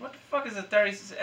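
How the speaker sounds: high, baffled protest; retold incredulity. Employee arguing back about making friends at his age, incredulous. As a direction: sputter it high, replaying your disbelief. Retells indignant reply to boss.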